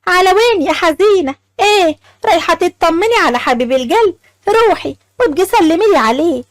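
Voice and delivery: lightly sarcastic taunt; a touch of scorn toward Laila; mocking. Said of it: "قالت لها بتريقة".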